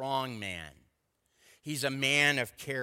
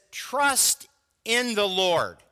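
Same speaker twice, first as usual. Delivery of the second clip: slow, louder reading of "Trust in the Lord"; solemn scripture quote; 4 semitones higher, 4 dB louder, slower than usual. Acted. Pastor quoting the psalm to the congregation, slow and weighty. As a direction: read the verse slowly with weight. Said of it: "It says".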